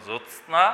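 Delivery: জ্যোৎস্না with t-s cluster sounded; difficult full pronunciation. Shown as a demonstration. Teacher showing the tongue-twisting form, full pronunciation. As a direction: say জ্যোৎস্না carefully as jot-sna. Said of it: "এটি উচ্চারণ করতে অনেকের দাঁত ভেঙে যাওয়ার".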